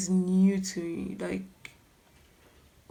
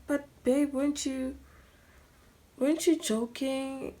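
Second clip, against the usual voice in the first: higher-pitched, hurt disbelief; shocked disbelief; 6 semitones higher than usual. Retold or imitated. Shocked girlfriend asking her boyfriend if he was joking, disbelieving. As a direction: plead with him in shock, voice raised in pitch. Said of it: "I was so shocked".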